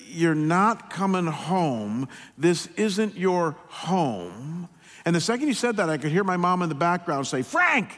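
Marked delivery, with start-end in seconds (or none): 0.1-4.7 unsympathetic father. Retold or imitated. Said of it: "without hardly any empathy at all". 7.4-7.9 calling out. Retold or imitated. Mom calling out in background.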